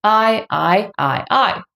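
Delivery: "I" said four times, each in a different Mandarin tone; four-tone drill. Shown as a demonstration. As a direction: run "I" through all the Chinese tones in turn. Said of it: "combine with the fourth tone just by using one compound final".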